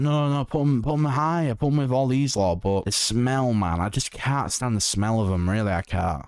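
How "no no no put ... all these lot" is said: higher, pushy no no no; mock protesting viewer. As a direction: imitate viewers demanding. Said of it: "might be like".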